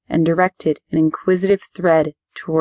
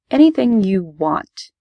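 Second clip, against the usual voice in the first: confident; 2 semitones higher, slower than usual. Acted. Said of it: "I said confidently".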